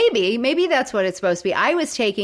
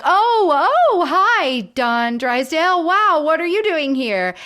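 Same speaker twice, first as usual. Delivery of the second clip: high, loud startled squeak; caught off guard; 8 semitones higher, 5 dB louder than usual. Retold or imitated. Boy caught fleeing greets his hero, high startled yelp. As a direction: yelp it like a kid caught sneaking out.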